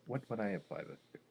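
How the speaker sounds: suppressing laughter, barely voiced; silent laugh. Real, not acted. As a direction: hold in your laughter. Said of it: "how much you're silently laughing".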